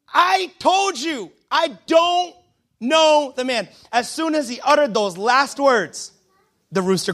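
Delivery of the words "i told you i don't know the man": slow, higher-pitched mock outburst; livid. Peter cursing his accuser, acted livid denial. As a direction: spell it out in exasperation. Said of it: "Peter gets so livid".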